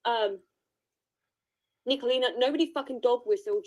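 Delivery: talking through a sweet; words round a mouthful of candy; mouth full. Real, not acted. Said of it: "that's why my mouth's full".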